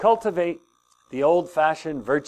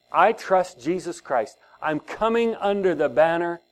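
spoken prayer. Shown as a demonstration. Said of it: "say all these things out loud".

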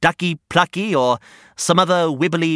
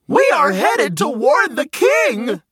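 higher, slow shouted proclamation; 10 semitones higher than usual. Acted. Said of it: "The two shouted in unison".

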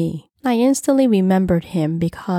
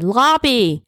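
higher, projected call; one-word raised command; shouted order; 6 semitones higher, 4 dB louder than usual. A narrator's reading. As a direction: call out the destination urgently. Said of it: "Henry shouted".

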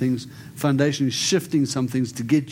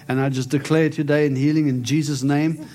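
healing declaration. Acted. Prays healing over the lady.

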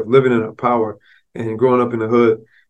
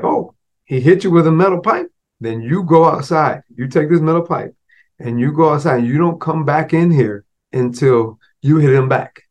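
higher, commanding mom laying down the law; stern mother; 3 semitones higher than usual. Retold or imitated. Mother tells son to take the pipe and hit back, stern. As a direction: order him out the door.

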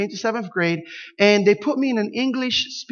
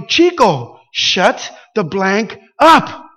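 booming, drawn-out preacher call, much louder and slow; 6 dB louder, much slower than usual. Retold or imitated. Boy in class booms at cousin Chico in preacher voice. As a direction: boom it out across a silent classroom like a pulpit. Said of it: "with my preacher voice ... nice and loudly".

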